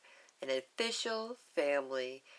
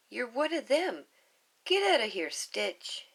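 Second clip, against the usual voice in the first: put-on high, loud, hurt girl yelling; angry girl shouting get out; 5 semitones higher, 4 dB louder than usual. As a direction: drive him away, louder. Lilu throws Stitch out.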